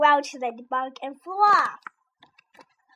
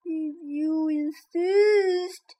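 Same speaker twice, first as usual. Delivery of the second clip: yellow jacket; much slower than usual. A narrator's reading.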